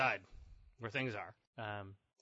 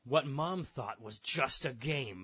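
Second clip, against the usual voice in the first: slow, ominous setup line; dramatic newscast tease; suspense news read; slower than usual. Acted. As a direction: draw it out for the sting. Repeats setup for the sting.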